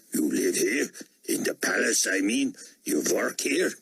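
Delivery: put-on rising, eager German accent; curious German voice, pitch climbing. A narrator's reading.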